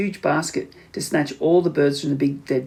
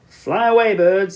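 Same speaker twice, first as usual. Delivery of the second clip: louder, higher call to the birds; shouting; 5 semitones higher, 5 dB louder, slower than usual. A narrator's reading. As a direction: shout a warning up to the sky. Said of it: "they used to shout".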